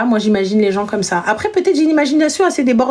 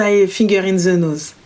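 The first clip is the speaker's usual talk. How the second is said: low, slow, smug boast; lightly voiced cocky guy, lower and slow; smug guy's boast; 5 semitones lower, slower than usual. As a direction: play the cocky guy who thinks he's safe. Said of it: "jusqu'à ce qu'ils se disent".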